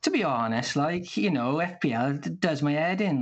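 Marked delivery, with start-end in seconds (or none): 0.0-0.8 Welsh accent, stretched "honest". Shown as a demonstration. Teaching the panel by example, Welsh accent. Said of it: "elongating a particular syllable of a word". 2.3-3.2 Welsh accent, stretched "head". Shown as a demonstration. Giving the panel another example, Welsh accent. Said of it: "elongating a particular syllable of a word".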